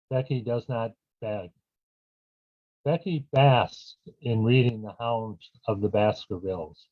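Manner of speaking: measured poem recital, each phrase falling at the end; poetry-reading cadence with punched phrase openings. Acted. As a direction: read your wordplay poem to an audience, pausing between lines. Reads own poem aloud.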